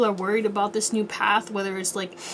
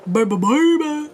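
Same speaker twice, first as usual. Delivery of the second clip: excited; 5 semitones higher, 4 dB louder than usual. Real, not acted. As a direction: cheer it out, pumped. Hyping up the reading.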